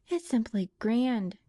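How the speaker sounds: slow, rapturous praise; ecstatic. Acted. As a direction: gush with delight. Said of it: "cried Rose ecstatically".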